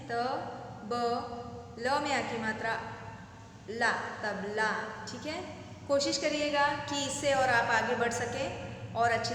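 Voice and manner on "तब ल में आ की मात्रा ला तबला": तबला built up as तब, then ला, then तबला; spelling out syllables. Shown as a demonstration. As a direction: build the word तबला piece by piece. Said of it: "इस तरह से पढ़ सकते हैं".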